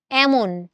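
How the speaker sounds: এমন as "æmon", starting like English "cat"; open "ae" vowel. Shown as a demonstration. Teacher testing for students, এমন with open "æ". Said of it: "উচ্চারণ করে দেখো".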